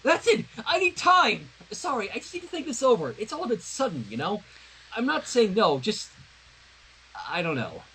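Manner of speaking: panicked blurting that trails off unsure; flustered Sunset. Acted. Sunset stalling Twilight's question, flustered then fading.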